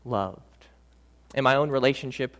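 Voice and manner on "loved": emphatic reassurance. Acted. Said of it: "The Holy Spirit emphatically says".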